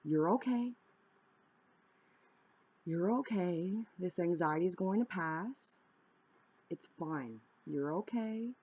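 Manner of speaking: gentle, soothing reassurance; reassuring self-talk. Shown as a demonstration. Talking herself down from panic, soothing. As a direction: comfort yourself like a frightened child. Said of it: "Tell yourself".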